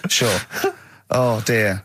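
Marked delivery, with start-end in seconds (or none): 0.1-0.4 whispered nervous agreement. Retold or imitated. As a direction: mutter it under the breath, scared. Mocking gangster agreeing.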